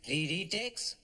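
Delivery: mocking dismay. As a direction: pile on the scorn, end in an exclamation. Mocking exam retakes.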